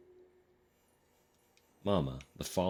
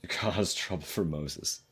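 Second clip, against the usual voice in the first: laughing. Real, not acted. Laughs mid-line.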